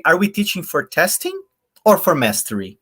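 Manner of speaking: "we" पर ऊँचा उठता ज़ोर; stress on WE. Shown as a demonstration. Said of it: "if I read it this way".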